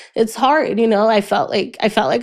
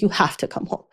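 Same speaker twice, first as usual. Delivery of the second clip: a desperate hushed plea; whispered plea; 6 dB quieter than usual. Retold or imitated. Daughter begging her brother to come home, urgent whisper.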